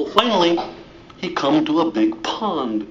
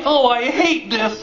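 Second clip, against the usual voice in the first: whiny complaint; 6 semitones higher than usual. Acted. Ugly duckling complains about bandage.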